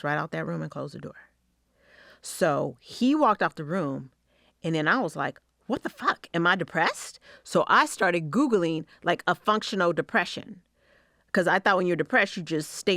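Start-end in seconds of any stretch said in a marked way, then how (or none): 5.7-7.2 shocked disbelief. Retold or imitated. Shocked realisation, retelling.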